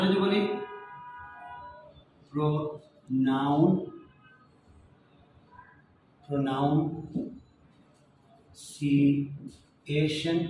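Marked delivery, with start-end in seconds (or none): 2.3-10.4 "প্রোনাউন্সিয়েশন" very slowly with "noun" in the middle; wrong pronunciation. Shown as a demonstration. Teacher demonstrating both sounds and accent wrong, slow noun syllable. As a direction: drag out pro-NOUN-si-e-shon in "প্রোনাউন্সিয়েশন". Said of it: "এটা দুইটাই কাটা".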